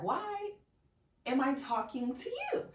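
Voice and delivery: high, exasperated wail; retold exasperation. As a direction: act out fed-up disbelief, pitched high. Retold exasperated end of phone call.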